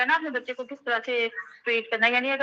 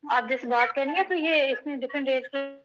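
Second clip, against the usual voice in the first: audio dropping out on a call; broken, cutting-out call audio. Real, not acted. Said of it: "آپ کی آواز چلی گئی ہے". (کال پر کٹتی ہوئی آواز)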